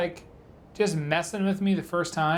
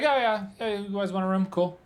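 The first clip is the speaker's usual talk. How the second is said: imitating the clerk's eager cheer, a bit higher; bright, keen welcome from the motel clerk; 4 semitones higher than usual. Motel clerk eagerly offering a room, mock enthusiasm. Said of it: "he lost his enthusiasm".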